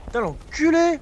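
high, loud angry curse; angry swearing. Real, not acted. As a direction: curse him out. Killed in game, swears.

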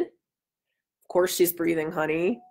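husband reassuring Diane, mildly relieved. Acted. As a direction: ease off, soothe her. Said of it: "with a note of relief".

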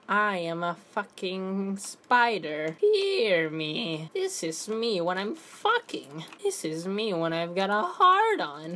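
a slow, lightly put-on spider creature; mock spider. Gamer playing a spider in Roblox, slow mock menace. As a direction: play a silly menacing spider.

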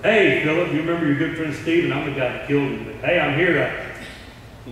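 Paul at Philip's door, forced cheer then slowing; awkward cheery greeting. Acted. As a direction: greet him too cheerfully, then stall.

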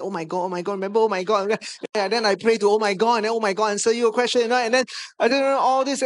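loud, rushed, breathless "oh my God"s; a pastor acting out his own flustered excitement; frantic excitement. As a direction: gush it out in a giddy panic. Reliving his frantic excited prayer.

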